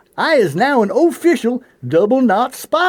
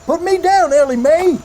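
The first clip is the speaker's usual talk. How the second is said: high-pitched; 5 semitones higher than usual. Acted. Lifted up, high.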